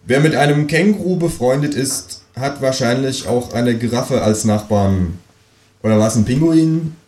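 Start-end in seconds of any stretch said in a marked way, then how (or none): 0.1-5.2 reading a quote. Shown as a demonstration. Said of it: "dann ist da erstmal ein Zitat".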